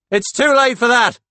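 loud, high melodramatic wail; hammed-up heartbreak at full pitch; mock sobbing. Paul faking heartbreak to Claude, mock sobbing. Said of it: "Paul sobs".

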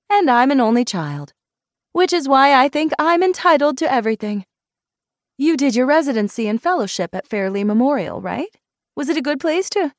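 high, loud, lively character voice; brash, entitled friend. Acted. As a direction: chatter boldly and inquisitively.

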